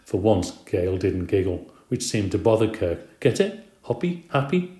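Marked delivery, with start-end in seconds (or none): 3.2-4.7 explaining the pun. A narrator's reading. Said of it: "he tried to explain".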